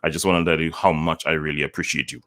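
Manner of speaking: flat, emotionless, rushed; hollow and hurried; without emotion. Shown as a demonstration. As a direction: say it like you don't mean it. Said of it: "doesn't really have that emotion".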